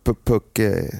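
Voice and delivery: Phuket said as "pookeh", silent final t; "Phuket" with the t dropped; tentative local pronunciation. Shown as a demonstration. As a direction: stammer into Phuket, ending on eh. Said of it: "jag tror att man uttalar det så".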